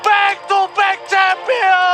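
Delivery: fighting game announcer. Real, not acted. Casters call the championship win.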